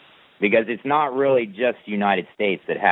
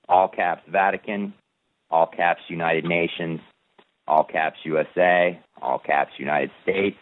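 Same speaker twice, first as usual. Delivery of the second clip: steady, measured recital of a legal text; formal document reading. Acted. Reading his declaration of independence to a follower, formal recital. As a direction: read it like a solemn proclamation.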